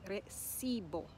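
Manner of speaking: "recibo" stressed on the middle syllable, "ci"; penultimate stress. Shown as a demonstration. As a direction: lean on the second-to-last syllable of "recibo". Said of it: "we put it on the penultimate".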